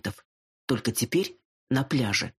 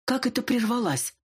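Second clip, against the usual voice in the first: high, hammed-up outraged question; theatrical indignation; 10 semitones higher than usual. A narrator's reading. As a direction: play the outrage for show. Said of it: "Театрально возмутилась я".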